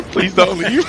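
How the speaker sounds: high whiny plea for "leave"; mock pleading. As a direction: beg in a high, pleading whine.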